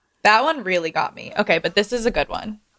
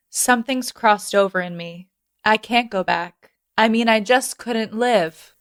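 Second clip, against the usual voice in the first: dramatic reading. Acted. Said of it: "little dramatic reading".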